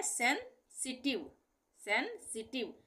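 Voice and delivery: सेंसिटिव with a break after sen; word in pieces. Shown as a demonstration. Teacher reading a long word, सेंसिटिव split into chunks. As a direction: say सेंसिटिव as sen, then sitiv. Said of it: "अलग-अलग टुकड़ों को हम एक साथ जोड़कर".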